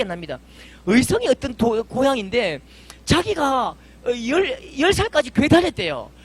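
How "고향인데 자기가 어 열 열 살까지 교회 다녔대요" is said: ordinary delivery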